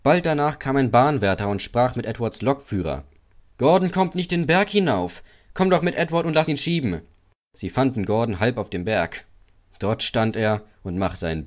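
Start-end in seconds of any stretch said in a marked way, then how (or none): 3.6-7.0 higher, urgent railwayman; raised, pressing voice; railwayman's request. Acted. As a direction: call for help briskly. Railwayman calling for help.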